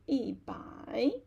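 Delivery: 一 falling before a dipping 百. Shown as a demonstration. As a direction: drop 一, then dip on 百. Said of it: "also change to a falling tone".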